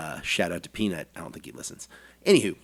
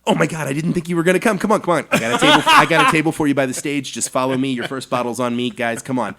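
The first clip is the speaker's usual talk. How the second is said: higher, louder, fast and gushing with laughter; delighted kid on Christmas; 6 semitones higher, 8 dB louder, faster than usual. Retold or imitated. Retold doorman greeting the guests, gushing with excitement. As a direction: burst out thrilled like a kid at Christmas. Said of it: "lit up like a little kid on Christmas morning".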